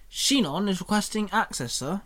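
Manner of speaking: robot assistant voice. Acted. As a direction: speak like a helpful AI. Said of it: "Alpha Prime replied".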